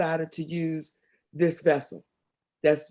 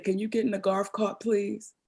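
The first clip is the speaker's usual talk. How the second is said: gentle; 5 dB quieter than usual. Retold or imitated. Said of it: "looked at me so gently and said".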